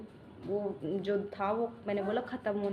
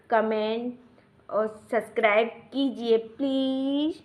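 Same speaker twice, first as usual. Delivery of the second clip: put-on slow, louder pleading on the baby's behalf; a hint of a baby voice, drawn out; speaking for the baby; 6 dB louder than usual. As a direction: ask the viewers as if you were the baby. Mother voices baby asking for blessings.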